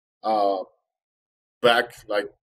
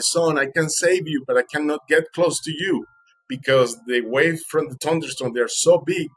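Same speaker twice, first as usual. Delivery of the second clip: retold fisherman's raised, higher voice; calling out; 4 semitones higher, 3 dB louder than usual. Fisherman to swimmer he can't get close to, calling out. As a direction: call out to someone across the waves. Fisherman calls out across big waves.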